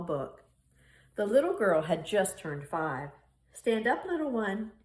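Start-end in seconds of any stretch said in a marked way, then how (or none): 3.5-4.7 gentle grandfather's coo. A narrator's reading. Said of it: "he cooed".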